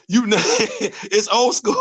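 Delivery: slow words through real laughter; laughing. Real, not acted. To listeners, laughing at his own joke. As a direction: laugh it out slowly.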